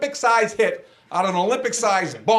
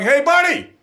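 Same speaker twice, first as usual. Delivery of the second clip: mock angry driver yelling; retold yell from a driver; 5 semitones higher, 3 dB louder than usual. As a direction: bark it like an annoyed driver leaning out of a car. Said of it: "a loud voice going".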